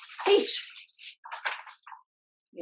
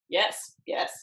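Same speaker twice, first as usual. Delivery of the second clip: breathless, whispered yes yes; whispered agreement; 3 semitones lower than usual. Acted. Sidekick eagerly agreeing with the plan, whispered. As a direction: hiss the yeses in eager agreement.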